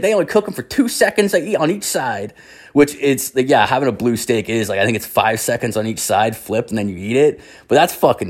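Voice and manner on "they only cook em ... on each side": high-pitched insistent comeback; acting out an indignant cook defending himself; retold defensive retort. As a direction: argue back in a voice pitched way up. Cook argues back at the yelling.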